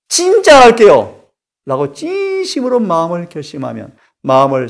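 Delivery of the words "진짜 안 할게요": earnest vow. Pretend. Acted vow to God.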